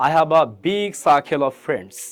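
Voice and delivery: slow model sentence, "circle" without R; slowly, aspirated K in "circle"; correct "circle". Shown as a demonstration. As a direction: say "circle" as "saa-khel". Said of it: "But সঠিকভাবে কি হবে?".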